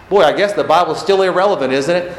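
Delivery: quick, dry sarcastic jab. Acted. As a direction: toss it off with heavy irony. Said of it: "I'm being sarcastic".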